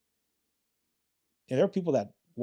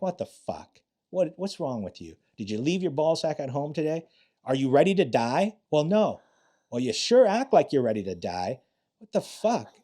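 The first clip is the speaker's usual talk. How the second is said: berating yell; 3 semitones higher than usual. Retold or imitated. Instructor yelling at trainee who gave up at gunpoint, angry. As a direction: tear into the trainee. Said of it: "I'm like".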